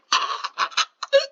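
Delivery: very high, breath-only squeaks; hammed-up high gasps of a kid faking hurt; dramatic imitation. Mimicking the kid overreacting to a push, dramatic imitation. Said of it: "he was just dramatic".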